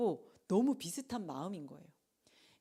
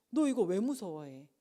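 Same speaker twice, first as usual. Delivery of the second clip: louder, scolding question; stern rebuke; 7 dB louder than usual. Acted. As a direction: challenge their fear. Jesus rebuking.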